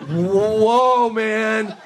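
loud high stoner awe; a big blown-away stoner whoa. Retold or imitated. Panicked student after the coincidence, loud and high.

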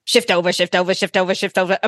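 chanting museum line orders, rising on approach; a hint of the overeager museum line guy, repeating orders; line organizer impersonation. Imitating the museum guy who loves his job, in a light put-on voice. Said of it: "this is my impersonation of him".

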